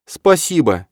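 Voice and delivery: high, loud grateful cry; pleading thanks. A narrator's reading. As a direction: beg with relief. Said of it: "взмолилась Ирида".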